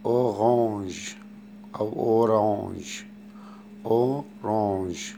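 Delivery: slow French أورانج with uvular r and nasal end; French orange. Shown as a demonstration. Teacher slowly models French أورانج for the class. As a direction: stretch أورانج out, French r in the throat. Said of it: "يعني برتقالي".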